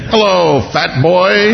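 high, lightly voiced talking toy dinosaur. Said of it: "It said one thing".

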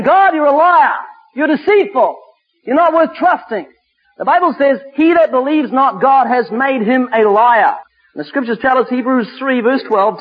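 forceful, deliberate scripture declamation; emphatic preaching. Acted. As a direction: confront the congregation with conviction.

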